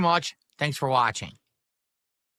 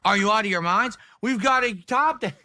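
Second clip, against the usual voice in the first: high fake indignation; mock outrage; 6 semitones higher than usual. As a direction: ham up the disbelief. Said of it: "I can't say it with a straight face".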